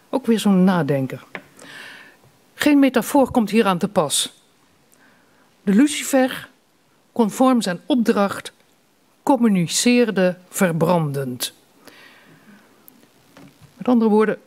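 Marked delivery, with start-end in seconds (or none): 2.5-11.5 measured lines, slowing into the last one; deliberate reading of a short poem; poetry recital. Acted. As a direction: recite it line by line with clear pauses.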